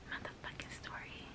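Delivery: barely audible whispered curse; whispered swearing. Real, not acted. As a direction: drop to a voiceless whisper for the swear. Swear word hushed before the story.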